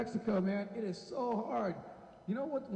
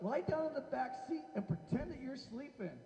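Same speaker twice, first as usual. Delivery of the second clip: mock coaxing; 5 semitones higher, 5 dB quieter than usual. Smugglers coax the child.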